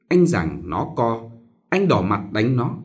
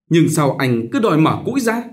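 sulky retort; 5 semitones higher, 4 dB louder than usual. Acted. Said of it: "dấm dẳn nói".

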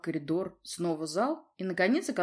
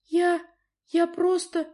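much higher, faltering; stammering girl; 12 semitones higher, 6 dB louder, slower than usual. A narrator's reading. Daughter stammers before her father, frightened. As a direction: stumble over words.

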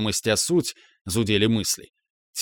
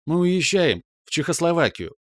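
higher, bursting with news; excited announcement; 6 semitones higher than usual. A narrator's reading. Mom announcing the trip to her son, excited. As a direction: hit уезжаем with glee.

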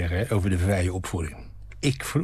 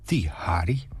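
whisper; 3 semitones lower than usual. Acted. Man recalls the hated boyfriend.

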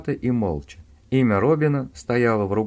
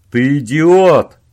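much louder, slow furious yell; 5 semitones higher, 12 dB louder, slower than usual. A narrator's reading. Owen yelling at Robin down the phone, furious. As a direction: blast it down the phone. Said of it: "заорал Оуэн".

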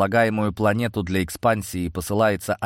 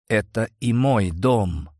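fearless; slower than usual. A narrator's reading. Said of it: "отвечаю ему бесстрашно".

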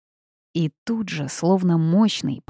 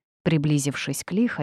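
plain reading voice

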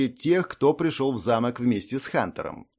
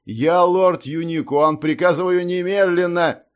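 commanding lord; 5 semitones higher, 5 dB louder than usual. A narrator's reading. Impostor lord commanding the hall, loud and imperious. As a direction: order them like a lord. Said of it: "раздался властный голос".

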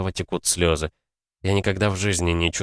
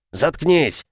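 higher, louder repeat of the yell; louder shout; 9 semitones higher, 4 dB louder than usual. A narrator's reading. Father yelling at son again, higher and louder. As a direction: scream it harder the second time. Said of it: "орёт краснея".

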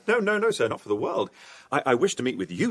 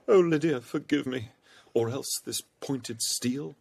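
lightly hammed-up pleading lover; mock lovesick plea; 2 semitones higher, slower than usual. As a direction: play the swooning suitor, drawing it out. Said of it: "says I".

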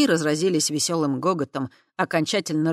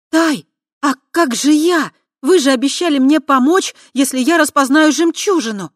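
high, loud pleading; desperate plea; 10 semitones higher, 11 dB louder than usual. A narrator's reading. Kava desperately reminding Tai of her promise.

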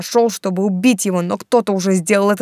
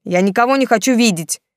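angry outburst; 4 semitones higher, 5 dB louder than usual. A narrator's reading. Artyom shouts at mother.

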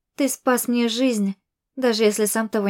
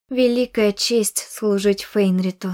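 slowly, weighing each word; slow, doubtful recitation. Acted. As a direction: recite a creed with doubt creeping in. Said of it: "Верила ли я в это".

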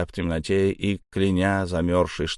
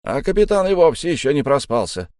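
a lightly voiced complaint, pitched up; mildly worked-up sailor's gripe; grumbling sailor; 7 semitones higher, 5 dB louder than usual. A narrator's reading. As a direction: grumble in a higher character voice.

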